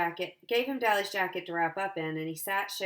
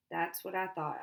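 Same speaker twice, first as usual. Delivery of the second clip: drowsy; 3 dB quieter than usual. Acted. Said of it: "I said drowsily".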